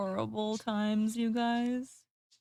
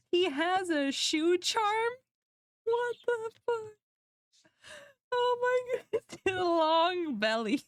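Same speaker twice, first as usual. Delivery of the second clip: high, incredulous squeal breaking into laughter; laughing disbelief; 9 semitones higher than usual. Real, not acted. Streamer spotting details on old drawing, laughing disbelief. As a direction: squeak in amused horror, stretching the words.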